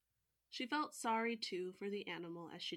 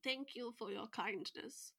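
put-on British accent; 3 semitones higher than usual. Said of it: "I don't know why they're all British".

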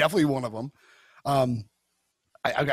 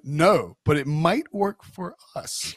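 lightly acted hopeful meme quote, slow rising finish; Tobias; 3 semitones higher, 4 dB louder, much slower than usual. Retelling a sitcom meme about open relationships, lightly acted hopefulness. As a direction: draw out the second half, climbing in pitch. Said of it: "Tobias is explaining why open relationships don't work".

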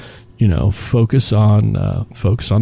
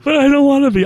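mock reluctant bartender; faster than usual.

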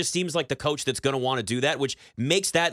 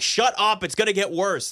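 mock irritated; 5 semitones higher, 3 dB louder than usual. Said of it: "getting pissed off at us".

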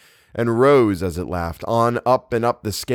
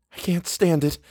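higher, strained protest; distressed resolve; 8 semitones higher than usual. A narrator's reading. Eleanor hearing a child hurt, distressed resolve. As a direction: think it as a firm protest. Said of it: "Eleanor thought concretely".

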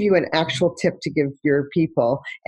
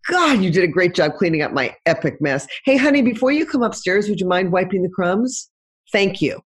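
lightly sweetened, friendly request; a gentle, grateful ask to her ex; sweet appreciative ask. Shown as a demonstration. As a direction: praise first, then ask nicely. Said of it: "This time I say".

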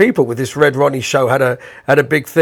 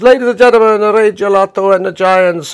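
TV host intro; 6 semitones higher, 4 dB louder than usual. Retold or imitated. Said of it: "Red Ronnie introduced us and says".

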